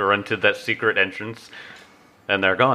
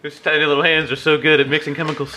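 laughing; 6 semitones higher, faster than usual. Real, not acted. Laughing joke.

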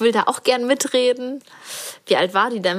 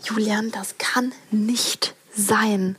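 whispering; much slower than usual. Real, not acted. Whispering back, kids asleep.

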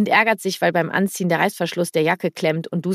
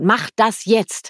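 slow commanding order; 3 semitones higher, much slower than usual. Retold or imitated. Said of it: "wie man sich zu verhalten hat".

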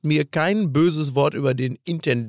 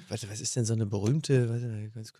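helium voice; 5 semitones lower, 11 dB quieter than usual. Real, not acted. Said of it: "dieses Helium einatmen".

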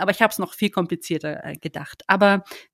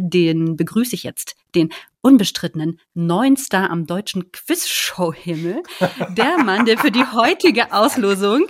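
lucha libre announcer. Pretend. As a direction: hype the fighter in the blue corner. Boxing-style introduction of a guest.

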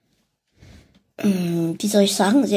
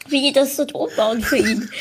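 whispering; 3 semitones higher than usual. Real, not acted. Giggly whispered aside.

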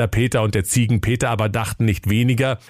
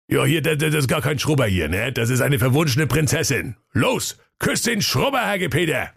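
high, mocking workman voice; cheeky workman, teasing him; cheeky sewer worker; 4 semitones higher than usual. (frecher Kanalarbeiter, spöttisch)

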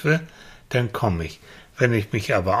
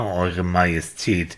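mock majesty; 5 semitones lower, slower than usual. Mocking title for the child.

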